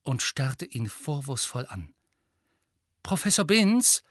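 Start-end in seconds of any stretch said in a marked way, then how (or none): 3.0-4.0 a raised call across the classroom; laut gerufen. A narrator's reading. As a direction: call the teacher's name out loud and high. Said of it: "sagte Harry laut". (laut und hoch gerufen)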